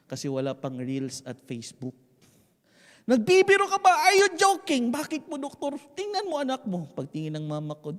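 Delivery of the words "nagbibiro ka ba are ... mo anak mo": high-pitched, indignant outburst; galit na paninita. Acted. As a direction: confront them loudly as if accused of a prank. Doctor and mother in acted quarrel. (pasigaw at mataas na paninita)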